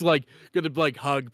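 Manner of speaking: normal talking voice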